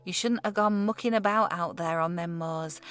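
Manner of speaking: lightly voiced old Yorkshire barman; broad Yorkshire accent. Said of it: "Robin's accent was broad".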